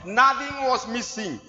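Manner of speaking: Nothing was missing, drawn out slowly; slow emphatic repeat. Real, not acted. Preacher driving home that all was recovered, slow emphatic stress. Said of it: "This is put there for emphasis".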